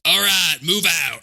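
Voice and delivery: lightly Southern "move out"; a hint of Aldo Raine drawl; Southern accent. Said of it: "an Eldo accent from Inglourious Basterds".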